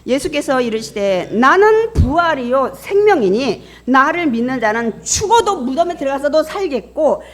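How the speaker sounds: loud, high proclamation of scripture; scripture reading. Real, not acted. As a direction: read the verse out with full pulpit force. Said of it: "읽겠습니다". (힘 있게 선포하는 성경 낭독)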